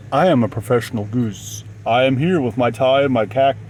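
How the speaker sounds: mock-pompous CEO goose voice; professional goose voice. Vlogger pretending to be a goose CEO, mock-pompous. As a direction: puff up like a goose in a tie. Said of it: "I can't even talk in that voice without laughing".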